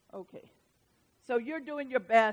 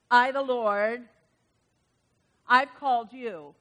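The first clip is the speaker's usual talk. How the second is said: preaching scripture. Acted. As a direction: proclaim each word like a promise.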